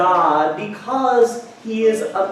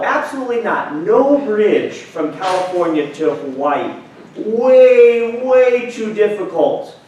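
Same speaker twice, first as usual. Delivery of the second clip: higher, incredulous genie voice; a genie scoffing at the wish; exasperated genie; 4 semitones higher than usual. Acted. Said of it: "And the genie said".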